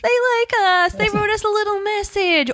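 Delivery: high-pitched giddy fan gushing; excited squeal. Retold or imitated. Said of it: "we call each other, we're like".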